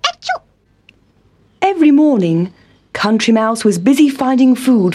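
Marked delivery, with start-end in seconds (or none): 0.1-0.4 high, soft sneeze. A narrator's reading. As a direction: let out a little sneeze. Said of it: "It made him scratch and sneeze".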